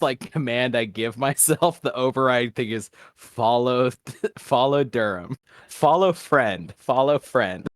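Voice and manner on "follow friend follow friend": dumb rat voice. Acted. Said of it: "Into my stupid ass version".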